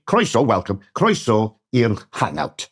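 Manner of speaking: careful Welsh teaching read; Welsh greeting demo. Shown as a demonstration. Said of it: "yes, you'd say".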